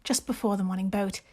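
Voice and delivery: amateur genteel British reading voice; Jane Austen British accent. Acted. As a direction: read it like an Austen novel, in a put-on British accent. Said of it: "in your best Jane Austen voice".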